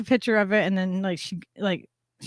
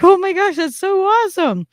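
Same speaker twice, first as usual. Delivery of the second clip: imitating a gushing lady, higher and louder; freaking out; 8 semitones higher, 4 dB louder than usual. Retelling the lady thrilled about the matching collar, imitated gushing. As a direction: gush it like a thrilled stranger. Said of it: "And she's freaking out".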